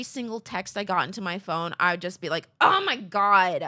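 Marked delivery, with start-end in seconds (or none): 2.6-3.6 drawn-out, loud mock exasperation; irritated. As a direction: groan it slowly, imitating annoyance. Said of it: "I'd be so irritated".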